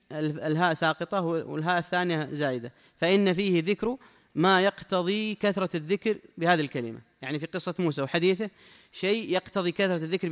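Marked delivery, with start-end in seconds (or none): 3.0-7.0 formal text reading. Acted. Reads the sheikh's text aloud.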